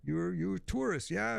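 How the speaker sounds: put-on old man voice. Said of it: "he tells me".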